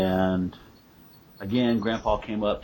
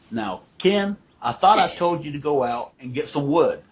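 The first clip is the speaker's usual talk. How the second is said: higher, louder mock reprimand; nagging grandma; 6 semitones higher, 5 dB louder than usual. Grandma reminding Ken to fetch wood, mildly stern. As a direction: remind him sharply, half joking. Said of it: "she was like".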